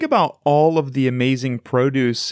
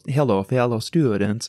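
robot voice. Pretend. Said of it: "can you do that robot voice".

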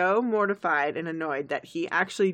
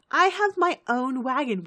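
eager pony; 6 semitones higher, 4 dB louder than usual. Acted. Acts out Pinkie's excited idea.

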